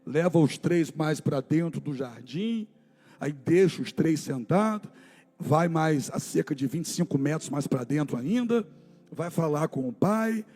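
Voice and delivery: soft, low, grave retelling; hushed story narration. A narrator's reading. Pastor retelling Gethsemane to the church, hushed and low. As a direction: draw them in quietly to the garden.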